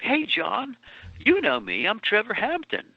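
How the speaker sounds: a hint of Liverpool swagger; Trevor's put-on accent. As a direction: introduce yourself as a fake Beatle. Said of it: "He says in the book".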